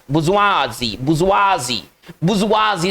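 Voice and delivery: बुजुआजी as bu-zwa-zee, each take falling; teacher repeating बुजुआजी as bu-zwa-zee; pronunciation demo. Shown as a demonstration. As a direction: drill बुजुआजी for learners, ending in a clear "zee". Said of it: "इसका देखिए उच्चारण कैसे करें".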